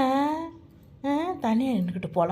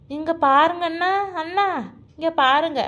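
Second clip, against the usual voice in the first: raised, higher attention-getting call; 5 semitones higher, 4 dB louder than usual. Acted. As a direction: call to your brother to look over. Calling the brother to get his attention.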